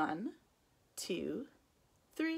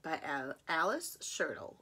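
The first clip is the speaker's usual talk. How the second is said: whisper; 3 semitones lower, 6 dB quieter than usual. Acted. Reading title to child.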